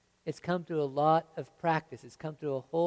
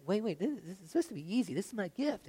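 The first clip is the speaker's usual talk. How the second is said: mock flustered protest; 5 semitones higher, faster than usual. Acting a flustered beginner.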